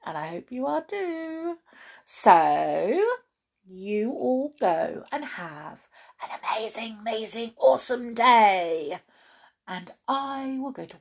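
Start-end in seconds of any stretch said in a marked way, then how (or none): 2.0-9.0 upbeat wish building to a loud finish; rousing send-off. Real, not acted. Host wishing listeners a great day, rousing send-off. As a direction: send them off with big enthusiasm.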